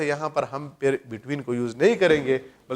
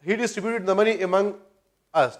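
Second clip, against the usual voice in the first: slow model sentence; 2 semitones higher, much slower than usual. Shown as a demonstration. Teacher slowly repeating a wrong example sentence for students. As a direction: read very slowly, word by word. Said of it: "یہ بھی ہمارے پاس غلط بن جائے گا".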